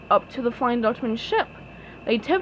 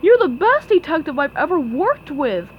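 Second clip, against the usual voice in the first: loyal; 4 semitones higher, 6 dB louder than usual. A narrator's reading. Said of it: "Patrick said loyally".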